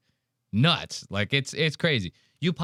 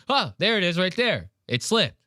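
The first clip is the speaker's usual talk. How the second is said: imitated excited catch; 6 semitones higher than usual. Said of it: "like Leonardo DiCaprio in that meme, she goes".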